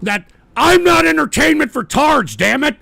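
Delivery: fed-up host losing patience; angry outburst. Real, not acted. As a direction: protest indignantly at the trolls. Host rants at trolls.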